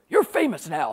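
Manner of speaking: lightly voiced blustering old bear; a hint of a blustering author; Pat Conroy. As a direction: imitate a friend's swooping pronouncement. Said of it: "This is how he talks".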